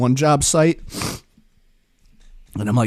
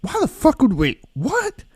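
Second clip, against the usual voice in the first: higher-pitched, disbelieving stammer, squeaking up at the end; baffled boss; 11 semitones higher, 4 dB quieter than usual. Retold or imitated. Boss finding a bucket of water, mock disbelief. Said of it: "He's like".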